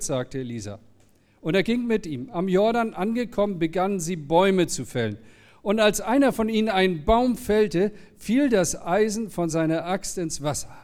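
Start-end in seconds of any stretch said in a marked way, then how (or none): 1.4-10.7 clear, measured scripture reading; lightly raised storyteller's delivery; story reading. A narrator's reading. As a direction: read the Bible story aloud to the congregation. Reads the Bible story aloud.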